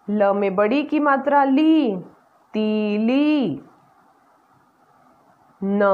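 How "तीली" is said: very slow, stretched word; slow blending. Shown as a demonstration. Teacher blends मटकी slowly for children, stretched. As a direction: draw each sound out for the class.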